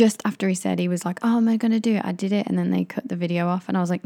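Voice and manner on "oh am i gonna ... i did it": funny voice. Retold or imitated. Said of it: "I always do that voice when I'm doing impressions".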